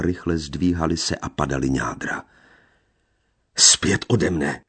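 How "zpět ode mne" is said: slow, loud and heavy, pushing her away; gypsy crying out in a trembling voice; deep trembling cry. A narrator's reading. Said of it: "hlubokým, třesoucím se hlasem zvolal".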